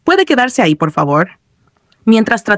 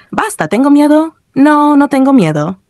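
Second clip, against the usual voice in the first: higher-pitched nervous denial; mildly nervous; 7 semitones higher than usual. A narrator's reading. Player insists he is not scared, mildly nervous. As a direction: deny the fear in a raised, uneasy voice. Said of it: "entre risas nerviosas añadió".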